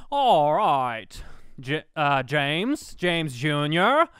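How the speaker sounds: lightly voiced Jimmy Stewart, a bit loud; a hint of a Jimmy Stewart dad sending the kids to bed; Jimmy Stewart impression. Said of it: "Jimmy Stewart, putting the kids to bed".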